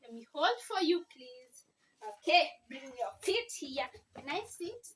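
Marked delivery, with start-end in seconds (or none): 0.0-1.7 louder, insistent but kind; firm coaxing. Real, not acted. Teacher insisting with child.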